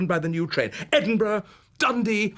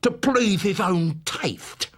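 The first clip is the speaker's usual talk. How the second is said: slow, wheedling Cockney lisp; slow, insinuating old-man lisp; Fagin's Cockney lisp; 3 semitones higher, slower than usual. Acted. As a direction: coax it out like a sly old fence. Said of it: "The Cockney Jewish lisp of Fagin".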